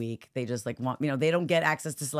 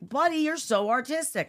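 put-on higher-pitched gushing to a child; lightly voiced doting parent; parental praise; 9 semitones higher than usual. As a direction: praise a little kid's artwork, lightly acted. Acts parents praising the child's art.

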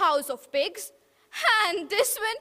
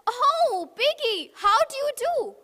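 higher, bright greeting; cheery girl; 9 semitones higher, 5 dB louder than usual. Acted. Miss Riding Hood answering the pig's call, higher. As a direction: greet him sweetly on the phone.

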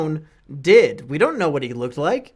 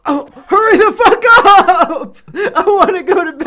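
impatient yelling; 12 semitones higher, 9 dB louder than usual. Real, not acted. Co-host rushing a friend to craft a bed, impatient yelling. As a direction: scream at your teammate to hurry.

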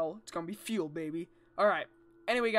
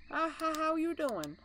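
higher, sing-song greeting; high playful voice; 7 semitones higher than usual. Pretend. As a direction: greet him in a cutesy high voice. Greeting the animatronic in a voice.

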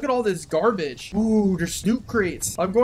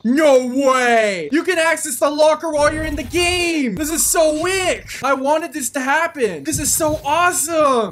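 excited, higher-pitched gushing; delighted, raised voice; thrilled amazement; 4 semitones higher than usual. Real, not acted. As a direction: gush over a long-wished-for surprise. Thrilled by a new game feature.

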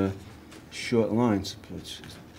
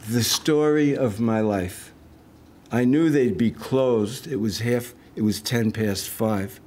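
measured poetry reading, line by line; poem reading. Acted. Poet reading own poem to an audience, measured recital. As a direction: recite with deliberate phrasing and pauses between lines.

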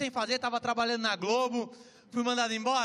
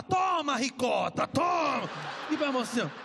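mock tough talk; slower than usual. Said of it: "Você vai falar".

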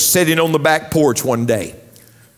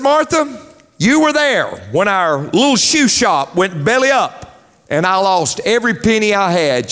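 mock aggrieved husband; 4 semitones higher than usual. Husband complains in joke.

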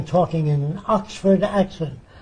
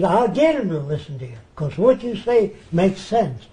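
lightly imitated Southern accent; a hint of a Klan leader's Southern accent; retold reply in a mild Southern accent; 3 semitones higher than usual. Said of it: "he said in his southern accent".

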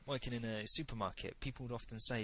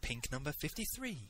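lightly voiced lottery announcer; 3 semitones higher, 3 dB quieter than usual. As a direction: read it out like a lottery draw. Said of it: "he says".

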